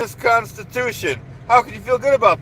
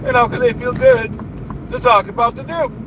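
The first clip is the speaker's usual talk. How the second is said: indignant squeal; 9 semitones higher than usual. Real, not acted. To viewers about critics, a high indignant squeal. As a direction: pitch jumps way up in outrage.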